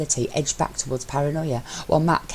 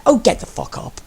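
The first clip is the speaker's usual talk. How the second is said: much higher, louder exasperated yell; exasperated shout; 10 semitones higher, 6 dB louder than usual. A narrator's reading. Mello yelling at his teasing husband to get up. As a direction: explode at him to get up.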